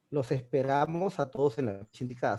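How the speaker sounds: said in one breath without a break; teacher showing the sentence flows without a comma; read smoothly. Shown as a demonstration. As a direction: let it run on with no stop. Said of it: "Suena de corrido".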